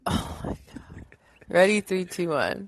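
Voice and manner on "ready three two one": a mock game-show countdown. Counting down for her co-host on request. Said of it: "I still wanna hear the countdown".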